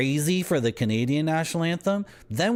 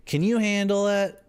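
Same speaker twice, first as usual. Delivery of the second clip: bigger teasing challenge; 10 semitones higher than usual. Pretend. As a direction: push the dare over the top. Taunting the chat about coca tea.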